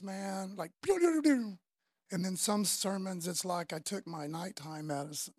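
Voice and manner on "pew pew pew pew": quick high pew pew to mimic talking fast; playful mock rapid-fire sound. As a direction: fire off little pew noises like a laser. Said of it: "I talk, like, super fast".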